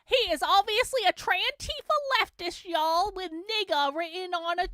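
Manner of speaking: put-on a light Southern accent, half-joking, with "y'all". Streamer mocking Andy Ngo's claim in a light Southern accent. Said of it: "I'm being Southern right now".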